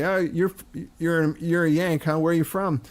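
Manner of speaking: lightly voiced London pub-goer; a mild imitation of a guy sizing up a Yank; London pub local. London pub guys questioning an American, lightly voiced. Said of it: "two guys would say".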